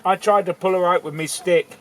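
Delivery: put-on girl's voice. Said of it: "she spoke these words".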